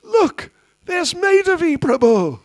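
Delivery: high, loud sing-song coaxing; coaxing a baby. Retold or imitated. Auntie distracting a crying baby, high sing-song. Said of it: "tell the child".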